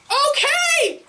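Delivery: high, drawn-out call; horse's startled reply. Acted. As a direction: answer loudly as the horse. Horse answers the shouting animals.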